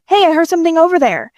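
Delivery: lightly voiced passing teenager; teen boy voice.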